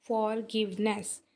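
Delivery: फॉरगिवनेस a little slow, in three syllables. Shown as a demonstration. Teacher repeating for the class, फॉरगिवनेस in measured syllables. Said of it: "तीन इसके syllables बन रहे हैं".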